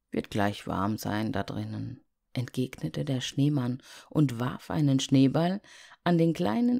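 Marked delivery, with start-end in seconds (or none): 0.1-2.0 snowman voice. Acted. Der Schneemann antwortet.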